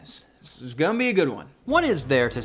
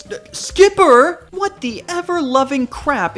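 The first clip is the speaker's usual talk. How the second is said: shocked shout; 9 semitones higher, 8 dB louder than usual. Real, not acted. Shocked by the penguin image.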